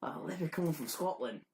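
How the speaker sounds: badly faked Irish, sliding towards Australian; terrible Irish accent. Teasing Maggie about leprechauns, terrible mock Irish accent. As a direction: attempt an Irish accent and miss, half laughing. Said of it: "That was a terrible Australian accent".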